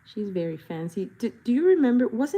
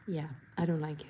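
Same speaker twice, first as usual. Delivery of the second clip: whispered dislike; 4 semitones lower, 6 dB quieter, faster than usual. Real, not acted.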